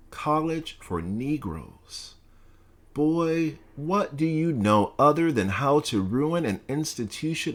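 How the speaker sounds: lightly voiced stern president, scolding; a hint of a contemptuous scolding principal; stern college president. Bledsoe berating the student, mildly stern scolding.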